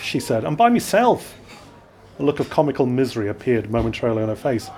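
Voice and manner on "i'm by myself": tipsy woman voice. Acted. Drunk woman answers policeman.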